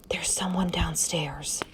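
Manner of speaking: breathless, slow whisper so no one downstairs hears; hushed and slow, barely voiced; frightened whisper into the phone. A narrator's reading. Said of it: "she whispered".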